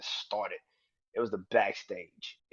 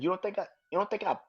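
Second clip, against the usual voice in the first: pleading; 8 semitones higher, 3 dB louder than usual. Retold or imitated. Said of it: "He said".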